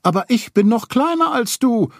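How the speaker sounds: put-on high, bright child's comfort; comforting Roo. A narrator's reading. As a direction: cheer him up like a tiny kid. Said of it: "tröstete ihn Ruh".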